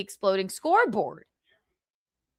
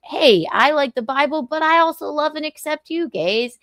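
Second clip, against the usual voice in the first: 1 cheery imitation; 5 semitones higher, 4 dB louder than usual. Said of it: "it's like".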